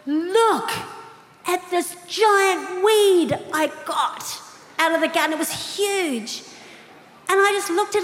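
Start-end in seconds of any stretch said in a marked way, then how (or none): 0.1-5.3 proud husband. Retold or imitated. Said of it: "he goes".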